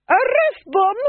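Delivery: high, loud sharp command; commanding order. Acted. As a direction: order the arrest. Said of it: "she said".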